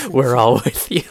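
hint at a solemn voice from above; god voice. Retold or imitated. God speaking down to the hero, mock-solemn. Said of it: "a god voice came down and goes".

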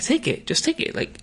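high put-on voice, nagging and insistent; pushy lady voice. Lady coming back to press the reporter, high nagging voice. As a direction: keep pressing him in a high mock voice. Lady keeps pushing the gift.

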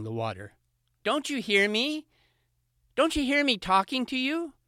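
high, pushy fox voice, calling out; a spoiled little fox demanding attention; eager young fox calling. Acted.

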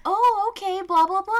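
high, loud, overfriendly chatter; hammed-up adult talking to a toddler; humoring a child. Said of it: "we're all like".

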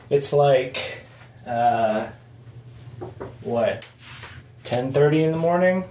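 recorded in an echoing bathroom; roomy bathroom echo. Real, not acted. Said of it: "live from my bathroom".

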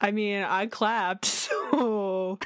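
glitchy robotic call audio. Real, not acted. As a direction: voice breaking up like a robot. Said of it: "you went into robot voice again".

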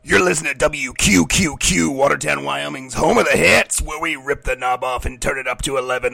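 radio DJ hype voice; pirate radio broadcast. Acted. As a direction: pump it like a rock DJ. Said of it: "taken over the airwaves".

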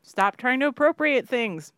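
high, slow, indignant; mock outrage. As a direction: huff it out like a scolding.

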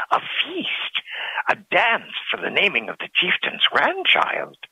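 high-pitched announcing call; crier's call. A narrator's reading. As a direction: cry it out to the whole village. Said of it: "cried he in a loud voice".

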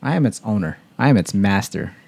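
playfully lordly declaration; mock-imperious; high and mighty. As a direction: state it like a ruler claiming dominion. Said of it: "Sounding, uh, high and mighty".

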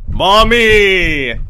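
loud, high, drawn-out call; child's happy shout. Acted. Happy little boy enters and sees his mother, shouting. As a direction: holler it like an excited kid. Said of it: "he shouted".

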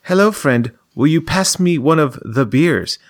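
lightly voiced quirky game mascot; stilted cutesy character voice. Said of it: "this character will say".

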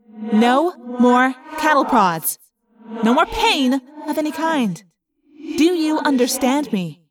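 slow, deliberate warning; slow menace. Acted. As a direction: spell it out threateningly. Elephant threatens slowly.

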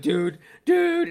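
high, loud mock scream; imitated screaming to a friend; retold phone scream. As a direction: yell it like a frantic phone call. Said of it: "I'm, like, screaming on the phone".

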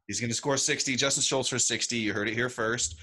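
excited. Real, not acted. Bold prediction, hyped.

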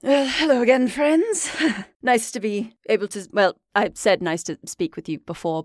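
lightly voiced tired host, halting and awkward; relieved greeting that trails into hesitant resignation; weary Strahd. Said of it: "very tired".

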